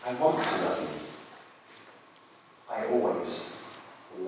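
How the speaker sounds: quietly heartbroken love letter to a dead wife; tender grieving letter. Acted. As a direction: read it like a widower's love letter, holding back tears. Reads the love letter aloud.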